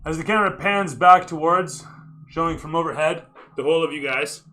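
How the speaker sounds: cinematic narrator, lifted pitch; game master scene setting. Acted. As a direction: sweep the scene toward the player.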